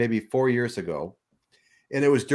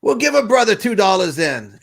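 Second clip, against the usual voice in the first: high, loud, laughing last pitch; one last laughing try; laughing hustler; 10 semitones higher, 8 dB louder than usual. Retold or imitated. Beach dealer's last offer to a tourist, laughing.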